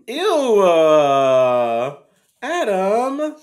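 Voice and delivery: high, loud playful ew; mock offended. Real, not acted. Host squeals in mock outrage at co-host Adam.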